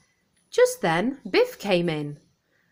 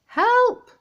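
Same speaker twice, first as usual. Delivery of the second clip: much higher, louder yelp for help; barked cry; 8 dB louder than usual. Acted. Floppy startled by the growling Teddy, loud yelped cry. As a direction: bark out a frightened cry. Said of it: "barked Floppy".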